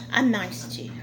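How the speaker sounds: unvoiced mock whisper of the claim. Slave owner whispering his excuse to the slave. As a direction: breathe it out, barely voiced.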